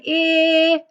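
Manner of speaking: a clipped short "eh" on its own; short e sound. Shown as a demonstration. Teacher modelling the short e sound for students. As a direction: demo the short vowel "eh" for the class. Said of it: "that's a short vowel sound".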